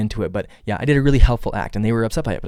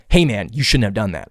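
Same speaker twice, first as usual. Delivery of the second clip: read as blunt. Retold or imitated. Someone reading a text as an accusation, blunt and cold. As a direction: read it as a reproach, not a joke. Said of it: "how I'm gonna read it is".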